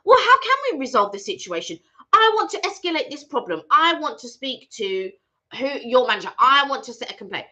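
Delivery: retold firm, frustrated demand; frustrated retort. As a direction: throw the question back, insisting on escalation. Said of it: "I was really frustrated".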